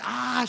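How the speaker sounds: badly faked crying wail; mock girl cry. Imitating a woman who walked in crying, mock wail. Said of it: "I don't know how to girl cry".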